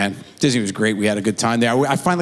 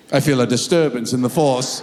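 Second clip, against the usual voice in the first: lower, otherworldly sage voice; Yoda impression; 3 semitones lower than usual. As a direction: croak it like wise old Yoda. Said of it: "in New York going".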